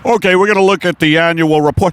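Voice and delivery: brisk boardroom presenter; lightly voiced businessman, quick; oil executive. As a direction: open a meeting as a mock executive. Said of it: "the Shell Oil executives who have meetings".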